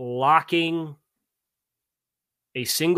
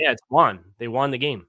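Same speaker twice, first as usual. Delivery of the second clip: won as wahn, Mid-Atlantic accent; 4 dB louder than usual. Real, not acted. Co-host defending his word, Mid-Atlantic accent. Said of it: "that's my, uh, mid-Atlantic accent".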